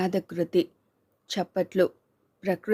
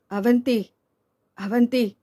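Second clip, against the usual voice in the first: anguished cry; 4 semitones higher, 3 dB louder than usual. Acted. Husband cries out to wife.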